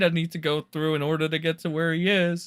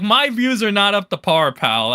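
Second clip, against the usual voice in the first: high, loud mock complaint; a streamer mocking his own griping; mock whine; 6 semitones higher, 6 dB louder than usual. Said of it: "whenever I'm like".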